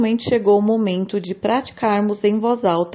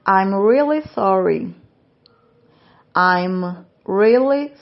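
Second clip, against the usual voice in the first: slow repeat-after-me reading. Shown as a demonstration. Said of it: "repitam cada frase em voz alta juntamente comigo".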